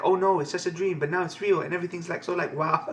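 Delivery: a hint of gushing Western fangirl inflection; lightly voiced fangirl. Fangirl tells her idol about a dream, lightly gushing. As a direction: lightly imitate a rambling, starstruck fan. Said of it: "I can imagine how they speak".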